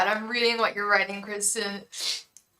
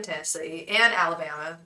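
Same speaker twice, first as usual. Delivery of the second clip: badly faked Southern accent; horrible Southern accent; 2 semitones lower than usual. Telling viewers where roommate used to live, bad Southern accent. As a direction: lightly put on a bad Southern twang. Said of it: "That was my horrible Southern accent".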